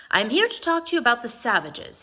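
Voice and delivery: a lightly voiced French priest, announcing it eagerly; a hint of an eager preacher announcing; eager announcement. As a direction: proclaim it like a zealous missionary. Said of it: "he announced, eyes shining".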